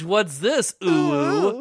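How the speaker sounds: anime weeb voice. Retold or imitated. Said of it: "gross noise that anime weebs make".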